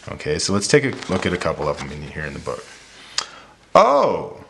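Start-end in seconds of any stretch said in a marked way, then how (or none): 3.7-4.4 high, loud storybook oh; surprised exclamation. Shown as a demonstration. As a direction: exclaim it high, then let it drop. Demonstrates punctuation from the book.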